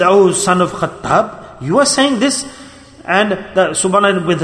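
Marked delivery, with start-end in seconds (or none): 0.0-2.4 stern rebuke. Retold or imitated. The Prophet to Umar, who pities his poverty, retold stern rebuke. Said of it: "and sternly said".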